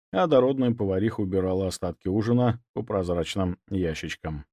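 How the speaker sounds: plain reading voice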